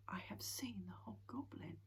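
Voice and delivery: breathless hushed whisper; awed whisper. A narrator's reading. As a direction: whisper it to yourself in awe. Snufkin's hushed thought.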